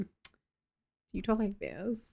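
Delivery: put-on slow, drawn-out Cali girl talk. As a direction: lightly imitate a California girl, stretching the words. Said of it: "Do you talk like a Cali girl?".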